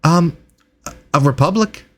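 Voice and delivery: halting delivery with excited little starts; eager, hesitant researcher. Acted. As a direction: play a flustered scholar greeting strangers. Game master voices Reginald.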